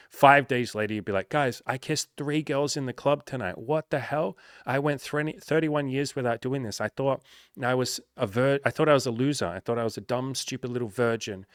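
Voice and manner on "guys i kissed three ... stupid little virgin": higher-pitched excited disbelief, imagined client; amazed client. Pretend. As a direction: play a client amazed at their own success. Client's imagined amazed report afterwards.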